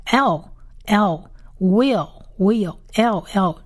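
slow, spaced "L" and "will" with the English L after the vowel; drawn-out "L", "will" as English L examples; English-style final L. Shown as a demonstration. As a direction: sound out "L" and "will" slowly, each repeated. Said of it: "通常是跟英文一样".

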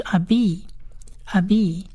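abi repeated as a-BEE with pauses; pronunciation demo. Shown as a demonstration. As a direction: model "abi" carefully for learners, ending on a long ee. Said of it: "最后一个字是".

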